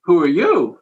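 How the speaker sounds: imitating her, question thrown back; lightly voiced woman returning the challenge; retold counter-question. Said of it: "And she's like".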